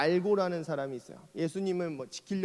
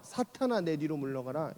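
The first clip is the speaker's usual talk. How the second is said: a hushed, severe "사탄아" dropping low; stern rebuke; 3 semitones lower, 5 dB quieter than usual. Retold or imitated. Jesus rebuking Peter, severe and quiet. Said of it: "되게 혹독하게 혼나는".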